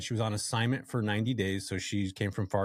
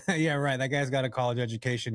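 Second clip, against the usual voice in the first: scoffing boss; 3 semitones higher than usual. Retold or imitated. Boss scoffing at his ambition.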